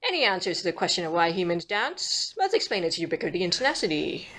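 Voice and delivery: amateur attempt at a BBC accent. Shown as a demonstration. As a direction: read it out in a makeshift BBC accent. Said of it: "read that passage in the B B C accent".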